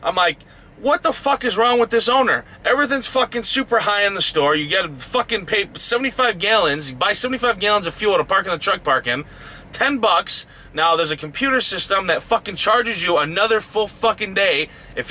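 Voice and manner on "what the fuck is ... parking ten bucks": higher-pitched, indignant retold rant; fuming. Driver reliving his rant about the owner's prices, fuming. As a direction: rail at the prices in pitched-up outrage. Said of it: "fuming at this point".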